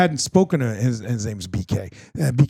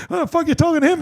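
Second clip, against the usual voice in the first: much higher, mock-disdainful voice; imitated blunt snub; 13 semitones higher than usual. Ducka D walking past the FaceTime, acted-out disdain. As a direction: act out a dismissive passer-by.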